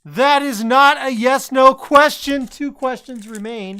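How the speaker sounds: slow, loud menacing machine voice; slow theatrical villain menace. Acted. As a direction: boom it out like a villain oracle. Machine rejects the question.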